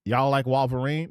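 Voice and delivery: put-on tentative Southern accent, WAHL-ver-een; half-hearted Southern accent, questioning; trying an accent. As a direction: try out a Southern "y'all" accent. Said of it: "trying to think what accent that'd be".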